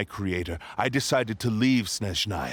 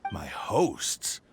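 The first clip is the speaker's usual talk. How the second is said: a contemptuous aside in a whisper; scornful whisper; 4 semitones lower than usual. Acted. Sword scoffing at Kazuha's question about its hosts, whispered scorn. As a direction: breathe it out, dismissive and low. Villain dismisses its victims.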